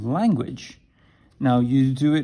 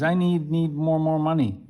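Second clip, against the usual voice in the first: higher, halting broken English; struggling learner; 5 semitones higher than usual. Shown as a demonstration. Teacher acts out a Chinese learner struggling with English. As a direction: stumble through it like a lost learner. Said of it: "Oh, that's great in Chinese".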